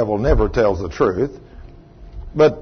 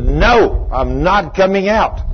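higher, defiant yell; mock demon scream; 5 semitones higher, slower than usual. Demon refuses the rebuke, mild mock defiant yell. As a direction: throw the refusal back like a cornered demon. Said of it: "He screamed back at me".

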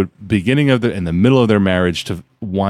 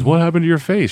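teasing grandpa; 7 semitones higher than usual. Retold or imitated. Grandpa asks the waitress.

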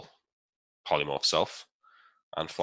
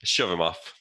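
normal talking voice

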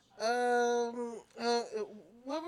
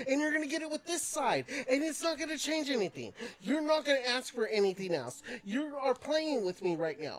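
higher-pitched exasperated rant; mock rant; 6 semitones higher than usual. Worker mock-ranting at a regular who always orders the same.

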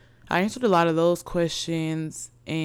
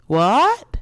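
loud, high shout of disbelief; shocked; 6 semitones higher, 9 dB louder than usual. Real, not acted. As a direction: burst out in disbelief. Disbelief at dream job.

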